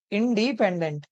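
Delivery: "इंडिपेंडेंट" spoken slowly in parts; syllable by syllable. Shown as a demonstration. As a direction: sound out "इंडिपेंडेंट" with each syllable distinct. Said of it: "तोड़-तोड़ के पढ़ते हैं". ("इंडिपेंडेंट" को धीरे, हिस्सों में बोलते हुए)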